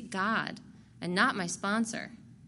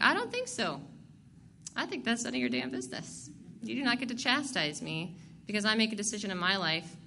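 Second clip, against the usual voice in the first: defiant retort; 3 semitones higher than usual. Retold or imitated. Answering the sponsor who threatens to chastise her, indignant and high. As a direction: pitch jumps much higher on think, indignant.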